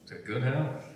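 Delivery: loud toast. Acted. Toast raised at the table.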